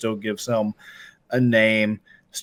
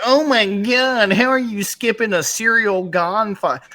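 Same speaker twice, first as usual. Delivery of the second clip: mock outraged fan; 9 semitones higher, 4 dB louder than usual. Mocking fans who'd skip no Cyril Gane fight, in a high whiny outraged voice. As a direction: play a shocked superfan in mock disbelief.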